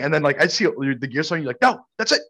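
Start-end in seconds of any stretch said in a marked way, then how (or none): 1.6-2.2 much higher, indignant retelling; mock fed-up outburst. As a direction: act out a friend who has had enough. Retelling friend's angry outburst at vendor.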